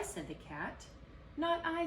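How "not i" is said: high, louder refusal; squeaky rat. Acted.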